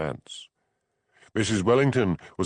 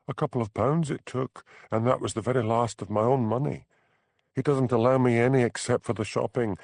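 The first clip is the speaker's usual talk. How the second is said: higher, light voice for Bella, desperate; young Highland wife, higher pitched, fed up; 5 semitones higher than usual. Acted. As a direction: play the trapped young wife pleading. Bella's lines in dialogue.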